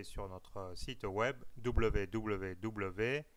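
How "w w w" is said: w w w spelled slowly and deliberately; slow spelling. Real, not acted. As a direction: spell out each letter slowly. Spelling out web address. (épeler lentement l'adresse du site)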